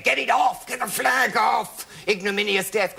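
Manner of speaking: a vicar shouting at the men to remove the flag; ordering shout. Retold or imitated.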